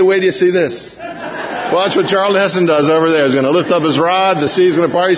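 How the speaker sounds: laughing, eager telling; a playful know-it-all; excited spoiler. Retold or imitated. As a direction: tease them with the ending. We telling Israelites the ending.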